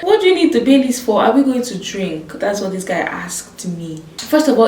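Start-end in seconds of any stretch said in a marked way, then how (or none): 0.0-2.3 quoting the driver. Retold or imitated. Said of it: "He was like".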